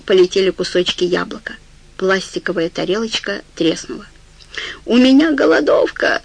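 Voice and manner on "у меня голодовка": yelling. A narrator's reading. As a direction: shout out the hunger strike. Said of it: "завопил он".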